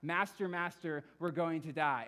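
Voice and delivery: a preacher's half-acted panicked cry; mock yell. Disciples waking Jesus in the storm, mock panicked yell. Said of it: "the first thing Jesus is hearing".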